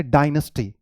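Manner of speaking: डायनेस्टी as "DIE-nus-tee"; common American pronunciation. Shown as a demonstration. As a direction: say डायनेस्टी with a reduced middle vowel. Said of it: "बहुत common pronunciation".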